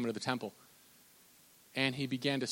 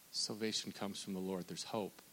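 softer, settled refrain; soft reassurance; 5 semitones lower, 9 dB quieter than usual. Acted. Preacher answering the depressed listener softly. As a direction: lay it down gently as comfort.

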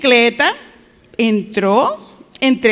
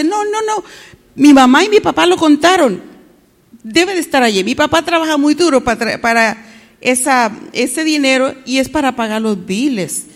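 nervous; 2 semitones higher than usual. Acted. Freddy tells the cashier his parents counted it, nervous. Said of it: "Freddy se puso tan nervioso".

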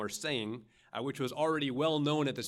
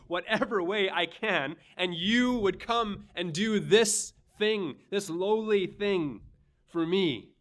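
louder, earnest Peter begging to serve; Peter pleading; 4 semitones higher, 5 dB louder than usual. Acted. Peter protesting to Jesus, earnest and louder. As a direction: plead as the humbled disciple. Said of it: "Peter's asking".

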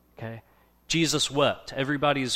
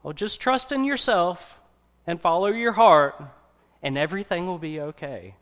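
higher, airy take on the cheerful advice-giver; mock advice voice; 4 semitones higher, 5 dB louder than usual. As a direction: lightly parody the breezy self-help line. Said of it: "heard this piece of advice".

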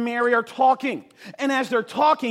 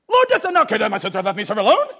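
angry reading; 5 dB louder, much faster than usual. Shown as a demonstration. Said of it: "The girl's ticked off".

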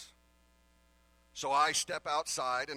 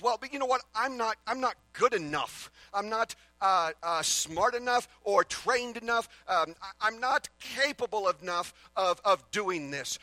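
higher, louder voicing of anxious self-doubt; inner doubting voice; 6 semitones higher, 6 dB louder than usual. Preacher voicing the listener's inner doubt, a mild anxious fretting. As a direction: play the nagging thought that says you're not enough.

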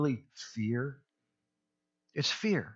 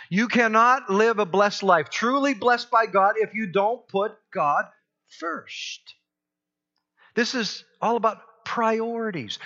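preaching at full force; 7 semitones higher, 5 dB louder than usual. Real, not acted. Pastor drives home the point.

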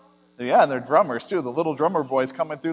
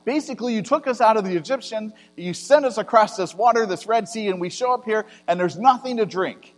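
higher, louder panicked grumbling; thirsty people accusing Moses, in a raised complaining voice; complaining Israelites; 5 semitones higher, 4 dB louder than usual. Acted. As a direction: protest to Moses as the scared crowd. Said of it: "they're complaining to Moses and saying".

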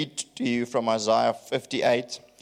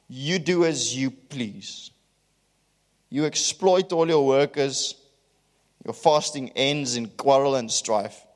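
emphatic scripture reading; 3 semitones higher than usual. Acted. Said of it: "I'm gonna read it with emphasis".

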